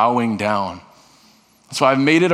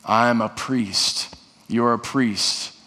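slow declaration; much slower than usual. Shown as a demonstration. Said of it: "Say it again".

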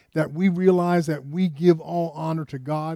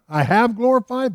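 lightly acted heavenly proclamation, raised pitch; a touch of divine declaration; 7 semitones higher, 4 dB louder than usual. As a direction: proclaim it from above, higher on "have". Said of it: "the voice from heaven saying this".

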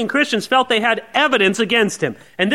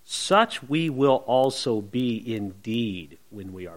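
low, slow, weighty warning; measured and grave, dropping away at the end; stern warning; 11 semitones lower, 6 dB quieter, slower than usual. Acted. Paul warning his critics he will act so in person, stern. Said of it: "tough, stern".

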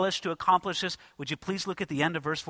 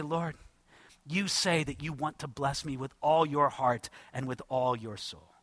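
hushed, softer prayer to the Lord; soft reverent prayer; 6 semitones lower, 5 dB quieter than usual. Pretend. Preacher voicing a believer praying to the Lord, hushed and reverent. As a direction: speak it gently as a humble prayer.

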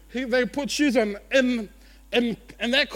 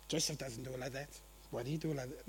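petty criticism; 8 semitones lower, 15 dB quieter, faster than usual. Retold or imitated. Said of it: "I'm just saying".

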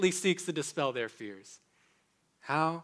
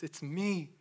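voicing Jesus; 6 dB louder than usual. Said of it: "It is I," Jesus says".

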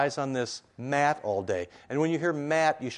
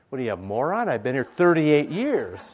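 indignant retort; 7 dB louder than usual. Acted. Sick man snapping back at Jesus, mock indignant. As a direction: protest in exasperated disbelief, rising in volume.

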